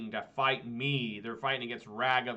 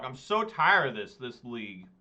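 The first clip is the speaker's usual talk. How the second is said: fed-up complaint; 4 dB louder than usual. Real, not acted. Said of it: "Deck, I swear to God".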